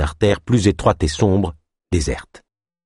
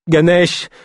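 moaned; 9 semitones higher, 3 dB louder than usual. A narrator's reading. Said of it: "gémit Ava".

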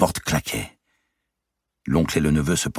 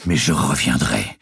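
a raised, angry vow; angry retort; 3 dB louder than usual. A narrator's reading. Nephew vows angrily to his uncle to return. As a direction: Guccio snaps back, louder than his uncle. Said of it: "ajouta Guccio d'un ton rageur".

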